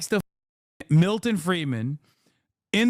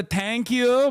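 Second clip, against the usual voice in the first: Iranian thank you; 5 semitones higher than usual. Retold or imitated. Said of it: "he's got a little bit of the".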